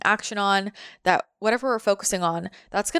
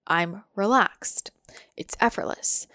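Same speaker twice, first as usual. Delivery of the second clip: slow, hushed and easy; relaxed; slower than usual. Shown as a demonstration. Showing how receiving feels, slow and calm. Describing relaxed receptive state.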